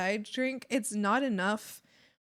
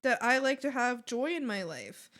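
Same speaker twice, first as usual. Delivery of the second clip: mock rant; 6 dB louder than usual. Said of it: "and I'm like".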